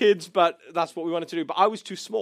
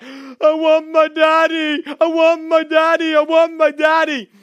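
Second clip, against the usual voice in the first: put-on high, loud, drawn-out child's wail; mock crying; 8 semitones higher, 6 dB louder than usual. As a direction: bawl like a lost little boy. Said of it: "suddenly I started crying".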